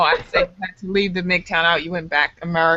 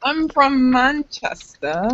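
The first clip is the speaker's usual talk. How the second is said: slow, higher-pitched Manchester attempt; British accent; 4 semitones higher, much slower than usual. Shown as a demonstration. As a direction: draw out a put-on British accent. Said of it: "I only do it, like, when I'm watching Harry Potter".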